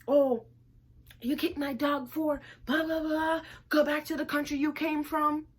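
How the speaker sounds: hammed-up spoiled girl snapping back; mocking the girl. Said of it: "This little girl come tell me".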